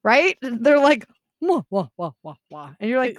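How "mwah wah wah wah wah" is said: mocking wah-wah chatter. People laughing before they hear your response, mocking wah-wah. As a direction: drone wah-wah, fading away.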